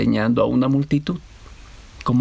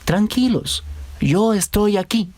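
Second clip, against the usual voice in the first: higher, unhurried storybook reassurance; gentle reassurance; 7 semitones higher, slower than usual. A narrator's reading. Jesus calms his terrified disciples, gentle reassurance. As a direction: soothe them, easing slowly through the words.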